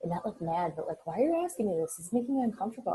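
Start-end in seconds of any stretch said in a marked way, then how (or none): 1.1-2.9 uneasy mom. Retold or imitated. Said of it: "She got mad at me".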